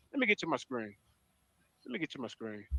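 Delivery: trailing off while busy with the screen; muttering to himself. Real, not acted. Debater mutters while fumbling for slides.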